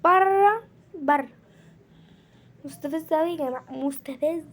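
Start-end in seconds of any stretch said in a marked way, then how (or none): 0.0-1.3 high, loud retold "out"; retold shout. Mother retelling how she sent Ahmed out, loud. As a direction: bark "برا" the way she shouted it. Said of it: "قلت له اطلع برا".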